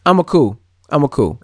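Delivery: "coup" said as koo, no y-glide; "coup" pronunciation. Shown as a demonstration. Host states his side of coupon debate, "coup" as koo. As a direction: say "coup" like coo, not cue. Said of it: "Instead of a Q".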